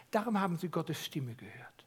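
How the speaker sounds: soft unvoiced whisper. Real, not acted. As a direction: let the truth land in a whisper. Preacher whispers the key point. (flüsternd, andächtig)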